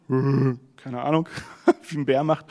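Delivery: chuckling through the words; laughing. Real, not acted. Preacher laughing at his own bear imitation while retelling Narnia, amused.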